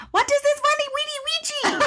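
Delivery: put-on squealed Russian accent through laughter; very high, hammed-up Russian, V turned to W; bad Russian accent. Russian lady puzzles over a tattoo, laughing mock Russian accent. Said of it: "I cannot do a good Russian accent".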